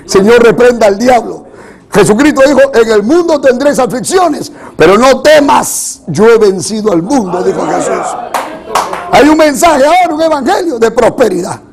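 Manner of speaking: forceful, insistent sermon voice; preaching. Real, not acted. Preacher warns congregation against the prosperity gospel, preaching. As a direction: press the point on the congregation in punchy phrases.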